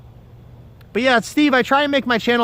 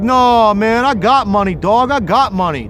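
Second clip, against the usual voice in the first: mock kid denial; 6 dB louder than usual. Kids denying theft in retold quarrel.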